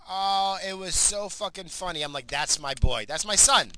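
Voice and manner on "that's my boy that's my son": proud cheer. Retold or imitated. Dad cheering his son's prank, loud and proud. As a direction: crow about your boy's prank.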